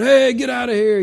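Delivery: mock yelling. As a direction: act out yelling back at them. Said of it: "I'd be yelling at them going".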